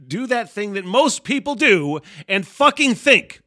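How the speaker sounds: high, loud exhortation to himself; exasperated self-scolding. Retold or imitated. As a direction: yell it like knocking sense into yourself. Acts out scolding himself to think.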